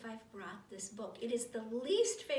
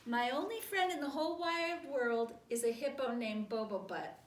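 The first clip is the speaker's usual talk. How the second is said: emphatic, performed read-aloud; silly declaration; 2 semitones higher, 6 dB louder than usual. Acted. Book makes reader confess, emphatic silly read-aloud. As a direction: announce it with great importance, dropping at the end.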